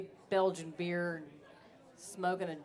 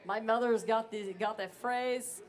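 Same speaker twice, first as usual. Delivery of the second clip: a hint of Nikolai's voice, lifted higher; quoting friend Nikolai; 6 semitones higher than usual. Telling Chelsea about his mother, lightly imitated higher voice. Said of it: "And he's like".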